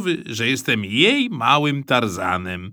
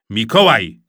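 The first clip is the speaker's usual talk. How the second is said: shouted; 3 semitones lower, 4 dB louder than usual. Acted. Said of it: "krzyknął tata".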